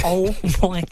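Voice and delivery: high, loud astonished reaction; retold amazement.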